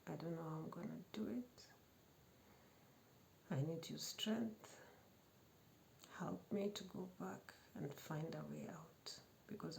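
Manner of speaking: soft pleading whisper to God; hushed prayer. Retold or imitated. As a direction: pray it under your breath.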